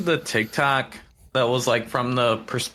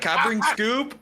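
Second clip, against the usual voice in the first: Shaggy voice; 11 semitones higher than usual. Retold or imitated. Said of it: "He's like".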